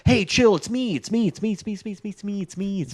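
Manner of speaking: high, hurried mock pleading; frantic pleading. Voicing Hogarth pleading to be recognized.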